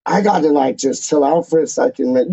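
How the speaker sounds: emotional, choked up. Real, not acted. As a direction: voice thick with emotion. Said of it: "You can hear it in my voice".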